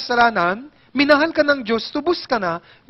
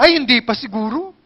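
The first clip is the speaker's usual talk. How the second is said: moping churchgoer. Retold or imitated.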